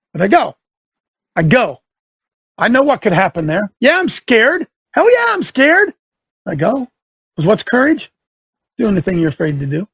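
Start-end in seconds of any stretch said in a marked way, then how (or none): 3.8-6.0 high, rising hell yeah; emphatic admission. Real, not acted. Preacher to his listeners, high emphatic admission.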